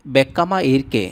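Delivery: বেক্কামা slowed, doubled k held; Tamil phrase modelled. Shown as a demonstration. Teacher showing viewers Tamil for I feel shy, careful pronunciation. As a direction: lean on the ক্ক in বেক্কামা, slowly. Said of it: "এনাকে".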